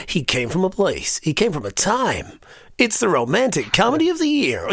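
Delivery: trailer announcer run-up lines; movie trailer voice. Shown as a demonstration. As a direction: warm up with epic trailer phrases. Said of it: "in between takes, I'll go".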